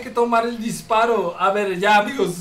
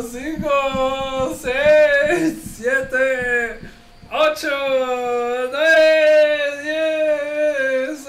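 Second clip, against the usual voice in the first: excited countdown; 4 semitones higher, much slower than usual. Real, not acted. Counting off for viewers' challenge.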